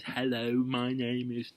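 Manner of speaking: exaggerated slow, over-careful greeting; over-slow patronising speech. Shown as a demonstration. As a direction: spell it out like to a child. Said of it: "It's ridiculous, it's patronising".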